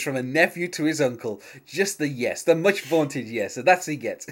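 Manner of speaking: Job boasting. Retold or imitated. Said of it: "like, boasting to nobody".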